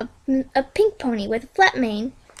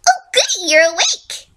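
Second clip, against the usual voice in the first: creepy cheer; 6 semitones higher than usual. Acted. Creepy villain greets captives.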